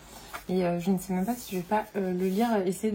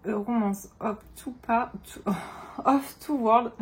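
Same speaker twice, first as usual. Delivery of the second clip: A Romance of Two Worlds read in a heavy French accent; French-accented English; slower than usual. Real, not acted. French booktuber mangles the English title in her French accent. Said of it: "mon accent est juste magnifique".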